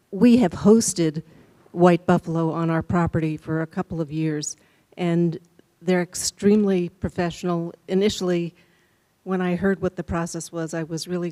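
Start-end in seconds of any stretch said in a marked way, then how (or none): 0.1-9.8 speaking up. Real, not acted. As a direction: project clearly so the room hears. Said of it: "can you speak up a little bit".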